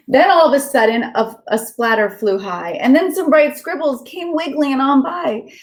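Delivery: lilting storybook read-aloud; gentle sing-song story narration for kids; reading to children. Acted. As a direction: read it like a bedtime picture book. Reads picture book aloud.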